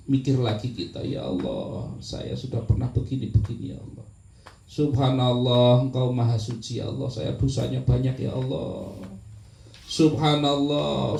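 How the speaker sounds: a hushed repentant dhikr; remorseful prayer. Shown as a demonstration. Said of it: "Ingat dosa-dosa kita".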